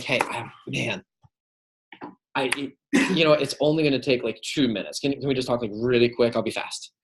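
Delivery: halting, stumbling phone plea; stammer, then plead for two minutes; mildly flustered, restarting each phrase; a little flustered. Shown as a demonstration. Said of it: "I allow my fluster to show".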